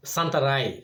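"সান্তা রায়", with the final m said as a nasal ending; Portuguese pronunciation. Shown as a demonstration. Vlogger correcting the English reading of a place name, "সান্তা রায়" said carefully. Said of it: "উচ্চারণ হবে সান্তা রায়".

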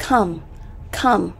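"come" with a short uh vowel; isolated, careful "come", rhyming with hum. Shown as a demonstration. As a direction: model "come" with the Vietnamese ơ sound. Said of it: "là âm ơ".

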